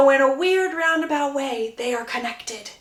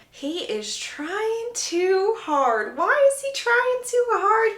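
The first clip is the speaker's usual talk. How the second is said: slow, drawn-out disbelief, rising higher; exasperated; 10 semitones higher, much slower than usual. Retold or imitated. Lucy watching Gregory overdo it, slow and exasperated. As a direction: groan it out in disbelief. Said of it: "just looking at Gregory going".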